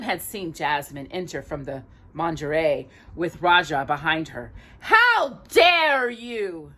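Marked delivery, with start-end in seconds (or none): 4.8-6.7 a slow, high, louder cry of outrage; a drawn-out, loud, offended princess; indignant. A narrator's reading. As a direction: hurl it at the men deciding her future.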